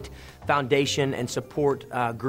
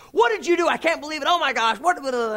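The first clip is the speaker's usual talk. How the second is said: high, loud hammed-up tirade dissolving into gibberish; imitated yelling; 14 semitones higher, 6 dB louder than usual. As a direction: screech at him like an outraged agent. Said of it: "she's just yelling at me".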